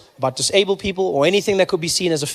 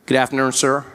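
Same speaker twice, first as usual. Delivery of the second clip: low, formal cop greeting; lightly voiced American officer; American policeman; 5 semitones lower than usual. American policeman at driver's window, formal greeting. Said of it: "Policeman walked up to my window".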